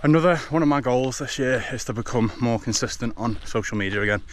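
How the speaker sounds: while running. Real, not acted. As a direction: keep talking as you run. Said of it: "running at a five twenty pace".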